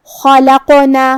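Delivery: خلقنا chanted with a bounced qaf; heavy خا, then echo the ق in خلقنا; qalqala on qaf. Shown as a demonstration. Teacher demonstrating qalqala, bouncing the qaf in a chant. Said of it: "قاف کو ہلاتے ہوئے یہ کلمہ کو ادا کریں گے".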